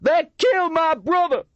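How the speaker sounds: high, loud furious outcry; angry. A narrator's reading. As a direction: cry it out in anger. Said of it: "said angrily".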